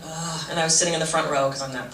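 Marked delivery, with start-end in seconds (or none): 0.0-0.4 low, soft groan of dread; dismayed groan. Acted. Student in the front row dreading meditation, dismayed groan. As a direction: groan under the breath, low.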